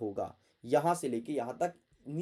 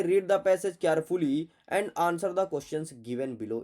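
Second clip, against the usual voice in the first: each word read out very slowly; slow, careful read-aloud; slow dictation; much slower than usual. Shown as a demonstration. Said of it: "reading the question out slowly".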